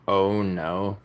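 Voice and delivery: slow, hammed-up Australian "oh no"; exaggerated Australian. Streamer showing chat an overdone Australian accent, slow. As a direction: drawl it out in a mock Australian accent. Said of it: "funnier to do an Australian accent, super exaggerated".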